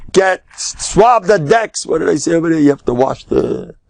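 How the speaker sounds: high-pitched mock barked order; barking older sailor. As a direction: bark orders at a younger sailor. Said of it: "barks at the, uh, an older sailor tells".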